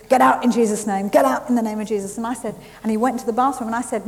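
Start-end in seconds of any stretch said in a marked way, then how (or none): 0.1-2.2 shouted command. Retold or imitated. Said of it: "and he's".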